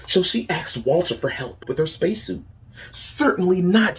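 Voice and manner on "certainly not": prim refusal. Acted. Walter refuses Zelda's request.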